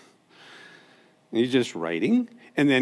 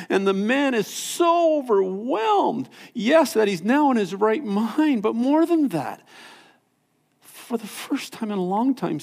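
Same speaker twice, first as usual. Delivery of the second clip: much higher, soaring praise; joyful preaching; 8 semitones higher than usual. Acted. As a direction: lift it up with joy. Preacher soars on healed man's joy.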